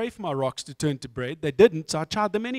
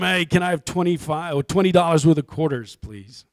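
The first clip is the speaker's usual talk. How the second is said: put-on American accent; 6 dB louder than usual. Customer hiding origins from bank teller, fake American accent. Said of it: "gonna s-, do an American accent".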